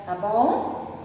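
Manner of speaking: normal talking voice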